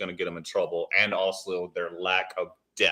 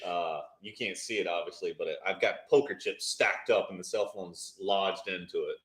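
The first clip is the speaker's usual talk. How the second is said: tinny phone mic audio; tin can sound; 3 semitones lower than usual. Real, not acted. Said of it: "Sounds like you're in a tin can".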